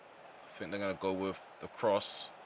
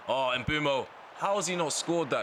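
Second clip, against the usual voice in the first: disbelieving cry; 7 semitones higher than usual. Real, not acted. Gamer yelling at his striker's miss, exasperated disbelief. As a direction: throw your hands up, it should've gone in. Gamer watches a missed chance.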